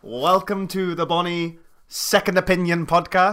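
slow, drawn-out mock-Scottish welcome; attempted Scottish accent. Co-host introducing the podcast on request, attempted Scottish accent. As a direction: introduce the show in hammed-up Scottish. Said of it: "introduce the podcast in the most Scottish accent".

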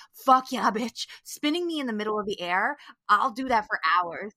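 loud whooping delight, then easing off; gleeful thrill. Retold or imitated. To herself on the spinning ride, gleeful whoop. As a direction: cheer like you love the ride.

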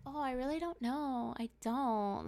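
soft, sweet, polite reply; mock-polite, playing it nice; super polite. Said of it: "Like, acting super polite".

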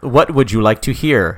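slow, lightly robotic computer question; old robotic voice. Acted. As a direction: ask like an old computer, slowly. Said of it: "like, an old robotic voice".

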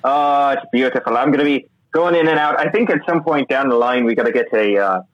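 lightly put-on, unconvincing Irish accent; amateur Irish accent. Co-host abroad showing off his Irish accent to the host, badly faked. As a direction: attempt an Irish lilt, badly. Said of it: "specifically devoted to my Irish accent".

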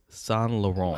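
SAINT LAURENT as slow san lo-RON; slowly, no Ts in SAINT LAURENT; French pronunciation. Shown as a demonstration. Summing up for co-host, SAINT LAURENT as san lo-RON. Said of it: "No T".

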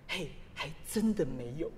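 innocent reply. Retold or imitated. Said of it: "很纯真的跟我们说".

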